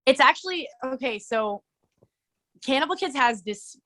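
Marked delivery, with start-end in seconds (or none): none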